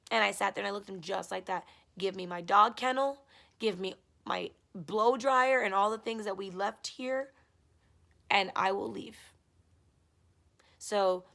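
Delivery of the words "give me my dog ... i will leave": louder, slow demand; retold demand. Girlfriend retelling demanding her things back, louder and slow. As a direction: insist on your things, firm and louder.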